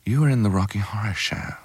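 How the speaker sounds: a hint of a demure royal lady; Princess Diana. Princess speaking to the actor she wanted to meet, softly imitated. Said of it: "but Diana said".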